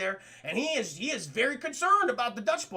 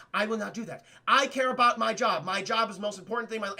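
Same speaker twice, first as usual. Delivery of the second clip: imitating a deadly serious agent; stilted mock deadpan, no play in it; faster than usual. Agent puts her job before romance, deadpan. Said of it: "just fucking deadpan the entire time".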